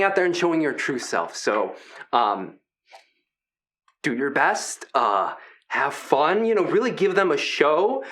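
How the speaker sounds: lightly voiced gentle giant, upbeat; a hint of a chummy hulking wrestler; friendly big creature. Big creature welcoming the new kids, lightly voiced and friendly.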